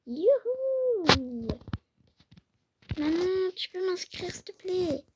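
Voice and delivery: put-on high excited kid voice; pleading child. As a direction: ask mum like an eager little girl. Enfant demande à sa mère. (voix d'enfant aiguë qui supplie sa maman)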